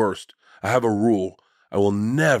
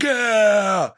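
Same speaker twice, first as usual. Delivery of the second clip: a big high whoop, voice jumping way up and louder; excited cheer; 11 semitones higher, 4 dB louder than usual. Retold or imitated. Friends cheering as the first drinks come out, a loud high whoop. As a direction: cheer like the moment the party starts.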